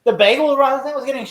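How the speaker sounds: high-pitched incredulous imitation; mock disbelief. Retelling the bagel robbery scene, high and incredulous. Acting out funny scene's dialogue.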